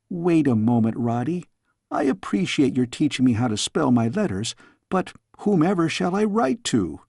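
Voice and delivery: put-on a cheeky young princess; curious young girl. Girl questions her tutor.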